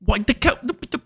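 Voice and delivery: high, disbelieving whine of exasperation; can't believe this cow; exasperated. Real, not acted. Pleading with the picky cow, high and exasperated.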